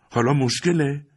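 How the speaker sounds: high, bitter echo of مشکله; a hurt teenager's mocking question; indignant son. Son throws father's word back.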